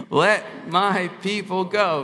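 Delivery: slow, emphatic proclamation; leading a recitation. Shown as a demonstration. Preacher leading congregation in Moses' words, slow proclamation. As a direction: declare it word by word for all to repeat. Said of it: "Let's say it again".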